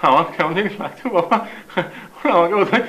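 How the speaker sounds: put-on whimper to his father; feigned sob, fading at the end; tearful pleading. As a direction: plead as if close to tears. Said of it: "কাঁদিস নে বাবা".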